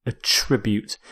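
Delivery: attribute said softly with the weight on TRIB, a-TRIB-ute; verb stress on second syllable. Shown as a demonstration. Lecturer models the verb again, soft second-syllable stress. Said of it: "as a verb".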